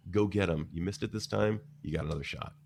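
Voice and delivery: gentle and kind. Retold or imitated. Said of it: "gentle and kind, whispering to us".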